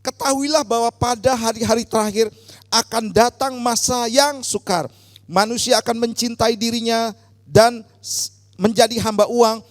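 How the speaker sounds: loud, forceful declamation of Bible verses; projected, emphatic reading aloud; loud scripture reading. Real, not acted. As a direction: lead the congregation reading out in a strong voice. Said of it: "dengan suara yang keras".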